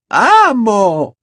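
high desperate scream; shout. A narrator's reading. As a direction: cry out to her master in anguish. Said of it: "gritó Bellatrix". (grito agudo y desesperado)

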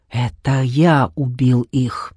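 slow, low, dark admission; low sinister confession. A narrator's reading. Shadow mage confessing the murders to Sioni, low and slow. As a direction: drop it low and let it sink.

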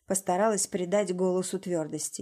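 plain reading voice

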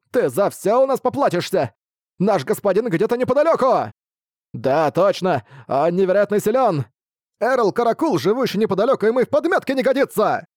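high bat boasting. A narrator's reading. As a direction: brag about the master. Bats boast of master.

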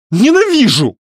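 high, loud, final hateful cry; shouted. A narrator's reading. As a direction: fling the word as you run. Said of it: "она выкрикнула".

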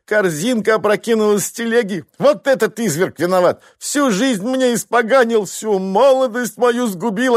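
wife complaining about husband to gatekeeper; tearful complaining. Acted. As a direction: pour out grievances to the stranger.

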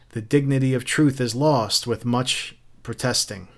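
voiced, understated gentle answer; gentle retort. Captain retelling his reply to Montag, mildly gentle. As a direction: ease off after the mock yelling. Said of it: "And I whispered gently".

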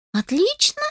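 "Отлично?" jumping very high in disbelief; incredulous echo. A narrator's reading. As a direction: fling back "Отлично?" astonished. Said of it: "переспросила Кони".

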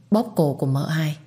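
usual speaking voice

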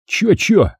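high-pitched teasing echo; mocking mimicry. A narrator's reading. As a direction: parrot it back to tease a mate. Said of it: "передразнивает напарник".

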